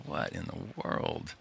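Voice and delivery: slow whispered disbelief; amazed whisper. Retold or imitated. Host recalling reading the book, slow whispered amazement. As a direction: breathe it out in hushed wonder. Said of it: "I was reading this going".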